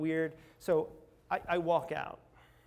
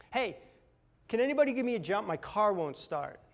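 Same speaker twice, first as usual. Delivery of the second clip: raised, higher voice to a room; public plea; 5 semitones higher, 5 dB louder than usual. Retold or imitated. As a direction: call out for help to everyone present. Asks whole store for help.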